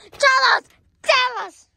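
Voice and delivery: high, loud play-acted demand; angry demand. Interrogating the kidnapper about Shorty, high and demanding. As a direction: demand an answer sharply.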